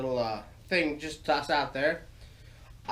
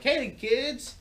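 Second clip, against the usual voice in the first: story time voice; 3 semitones higher than usual. Acted. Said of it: "a little bit like story time".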